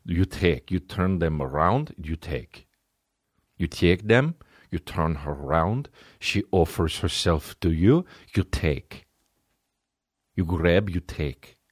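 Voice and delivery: blunt, lightly put-on Russian accent; flat Russian guy stating it plainly. The Russian guy tells the Italian how it's done, lightly Russian accent. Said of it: "the Russian guy's like".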